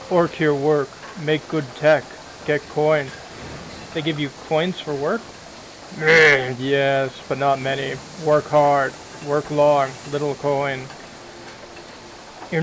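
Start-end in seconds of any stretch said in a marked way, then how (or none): 0.1-10.8 lightly voiced orc in broken English; a hint of a tired, grumbling orc laborer; orc worker. Orc worker explains his job.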